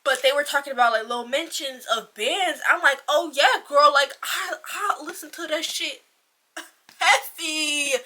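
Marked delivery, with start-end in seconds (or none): 3.1-7.9 bubbly gushing, a touch higher; excited fangirl. Retold or imitated. Telling a girl in the book she loves the bands too, gushing. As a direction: gush like a fan who found her people.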